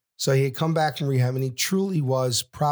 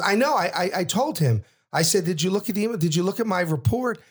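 higher-pitched, hurried pleading retelling; retold protest; 6 semitones higher, faster than usual. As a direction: imitate a son insisting he argued back. Son protests his firing.

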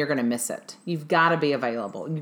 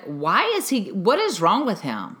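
mildly indignant imitation, pitch jumping up; retold anger; 3 semitones higher, 3 dB louder than usual. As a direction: mimic a friend's angry, baffled outburst. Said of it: "he's like, he got angry".

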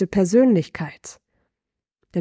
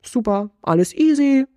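breezy nonchalance; 2 semitones higher than usual. Pretend. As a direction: toss it off like a stroll in the park. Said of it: "Wie geht's dir da?".

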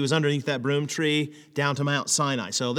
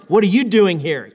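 louder, firm rebuke; rebuking question; 2 semitones higher, 6 dB louder than usual. Shown as a demonstration. Parent catching son at the party, rebuking. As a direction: scold with the question. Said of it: "you're rebuking him".

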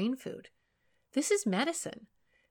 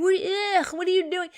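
put-on higher, louder disgusted teen; imagined teen recoil; 11 semitones higher, 9 dB louder than usual. Teen son imagined rejecting mum's affection, higher and disgusted. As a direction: push her away with disgust. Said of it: "she really thought he would".

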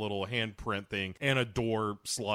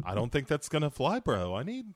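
lightly voiced bro impression; swooping bro haggling over money; Mark Wahlberg; 2 semitones higher than usual. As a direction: play a doubtful bro negotiator. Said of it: "Marky Mark is like".

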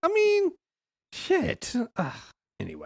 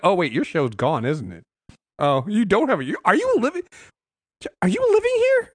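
mock dawning surprise. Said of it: "I'm like".

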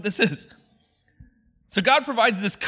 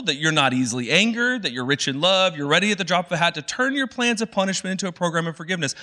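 a touch higher, fast grumbling list of God's virtues; whiny complaining Jonah; 3 semitones higher than usual. Retold or imitated. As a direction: rattle it off like an annoyed prophet. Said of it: "complaining to God".

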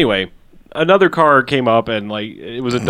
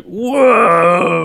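put-on kids amazed; 6 semitones higher than usual. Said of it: "the kids are like".

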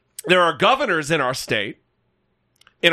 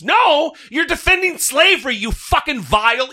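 angry outburst; 4 semitones higher than usual. Real, not acted. Angry outburst at Confederate defenders.

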